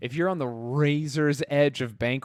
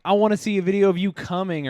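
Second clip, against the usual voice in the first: high, loud mocking request; a lightly voiced pushy date; 7 semitones higher, 6 dB louder, faster than usual. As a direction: play the eager date asking. Mimicking a date's request.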